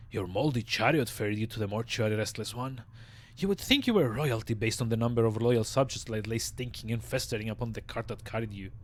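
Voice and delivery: raspy undead mortician voice; raspy old zombie. Acted. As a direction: rasp it out like a weary corpse. Voicing Dahl the zombie.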